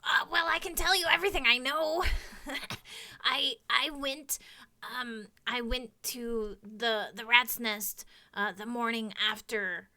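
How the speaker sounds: fast, eager kobold at first; lightly voiced eager kobold. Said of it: "he looks sort of eagerly at all of you".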